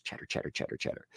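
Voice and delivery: quiet, rattled-off chatter noise; soft, voiceless patter of repeated words; imitated chattering. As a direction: mimic a brain chattering away under the breath. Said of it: "It chatters".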